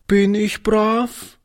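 put-on high, slow, timid child's question; anxious little girl. A narrator's reading. Frightened girl asks old Oliver if she is good, timid high voice. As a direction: ask it fearing the answer. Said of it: "fragte sie ängstlich".

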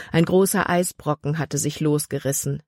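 ordinary delivery

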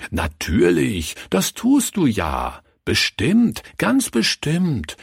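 drawn-out soothing reassurance; rising, emphatic gentle assurance; consoling. A narrator's reading. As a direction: comfort an upset child. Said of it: "tröstete er sie".

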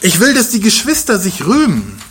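earnest Paul. Retold or imitated. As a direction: press the words out of care for the church. Voicing Paulus about the church.

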